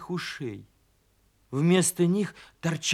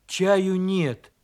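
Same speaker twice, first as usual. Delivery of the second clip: mildly shouted refusal; raised-voice bear cub refusal; shouting; 3 semitones higher, 5 dB louder than usual. Acted. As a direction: call it out louder from hiding. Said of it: "крикнул медвежонок".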